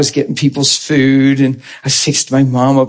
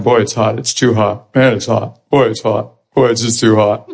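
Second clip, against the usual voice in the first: mock complaining; 4 semitones lower than usual. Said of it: "complaining the whole time".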